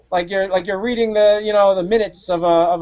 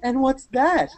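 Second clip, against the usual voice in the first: higher-pitched, hammed-up amazement; mock gushing; 4 semitones higher than usual. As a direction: imitate an over-impressed gadget fan. Acting out gushing commercial girl.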